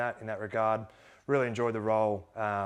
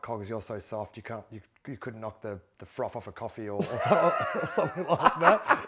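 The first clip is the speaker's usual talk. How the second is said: laughing retold sledge; 5 dB louder than usual. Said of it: "I think he said".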